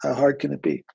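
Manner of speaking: a hint of a breezy, dismissive voice; dismissive know-it-all. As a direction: lightly play someone who thinks quitting is easy. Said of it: "somebody says to you".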